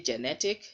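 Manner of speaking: genetic opening with a clear JEN; weight the GE in genetic; full E in genetic. Shown as a demonstration. Teacher demonstrates the mistake, full GE in genetic. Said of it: "you've put the stress mark on the first".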